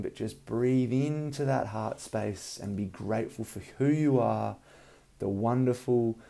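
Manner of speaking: calm breathing guidance, unhurried; soothing massage murmur. Acted. Leads a guided meditation.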